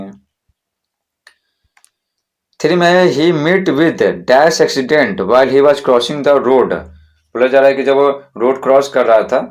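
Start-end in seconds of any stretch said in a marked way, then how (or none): 3.1-6.7 very slow, word by word, saying "dash" for the gap; slow dictation read. Shown as a demonstration. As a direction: read the sentence slowly for the students to follow. Teacher reads exercise sentence.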